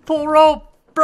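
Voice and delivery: loud, high burst of hype; excited shout. Real, not acted. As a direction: yell it out, pumped up. Tug of war minigame starts.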